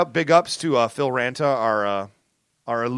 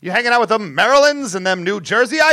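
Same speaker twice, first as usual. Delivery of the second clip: put-on old-timey voice; 3 semitones higher than usual. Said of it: "we're back in old-timey voice".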